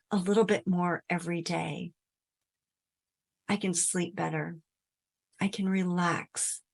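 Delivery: soft, low affirmations with long pauses; positive inner voice. Acted. Modelling the positive voice for listeners, soft reassurance. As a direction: gently affirm yourself, low and unhurried. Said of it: "that positive voice can simply say".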